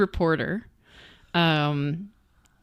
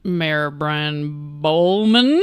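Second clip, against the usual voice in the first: drawn out; 5 dB louder, much slower than usual. Acted. Pun delivered drawn out.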